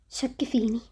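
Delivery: whispered under the breath. Acted. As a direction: drop to a secret whisper. Confiding a secret to friend. (همس خافت)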